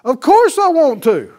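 Jesus voice, joyful. Acted. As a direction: ring it out as the eager Master. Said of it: "do you hear the Master?".

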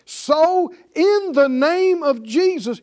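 slow, loud, emphatic preaching; forceful preaching. Acted. Preacher to congregation, preaching loud and slow. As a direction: drive each word home from the pulpit.

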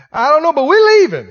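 hammed-up digging in; loud mock stubbornness; stubborn pastor. Pastor quoted stubbornly leaving.

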